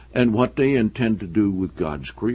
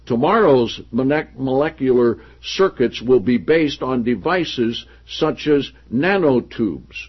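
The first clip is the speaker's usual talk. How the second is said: projected, deliberate reading of a book; emphatic read-aloud; 5 semitones higher, 6 dB louder than usual. Acted. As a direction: read the passage out to the room with emphasis. Reads book passage aloud.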